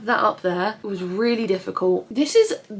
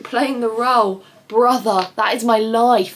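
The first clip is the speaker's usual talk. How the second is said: louder, slow disbelieving retort; indignant comeback; 6 dB louder than usual. Retold or imitated. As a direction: throw his words back at him, offended. Retold comeback to rude customer.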